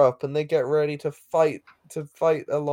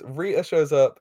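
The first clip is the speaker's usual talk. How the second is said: accidental British pronunciation of Rita. Real, not acted. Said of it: "I said that very British".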